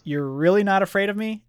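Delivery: high, loud mock disbelief; thrown-back monster. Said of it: "this monster is totally thrown back".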